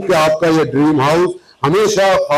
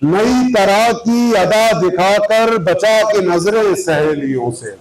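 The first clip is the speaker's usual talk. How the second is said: rhythmic verse with raised, sustained repeats; ghazal recitation; 2 semitones higher, slower than usual. Acted. Poet presenting his ghazal to listeners, mushaira recitation. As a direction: recite metrically, letting each couplet's ending fall.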